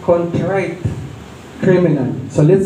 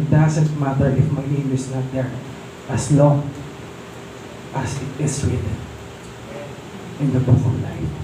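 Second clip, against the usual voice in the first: fading softer toward the end; hushed quote; 3 semitones lower, 7 dB quieter than usual. Retold or imitated. Preacher retelling the actor's line again, fading into a hush. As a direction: drop to a soft, moved hush. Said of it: "Sabi niya".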